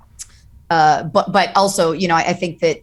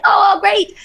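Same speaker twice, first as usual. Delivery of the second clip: high, bright-sounding fake delight; answering a fan with hollow, high chirpy delight; forced cheer; 13 semitones higher, 5 dB louder than usual. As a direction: paste on a cheery reply. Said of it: "in this mode of everything's great".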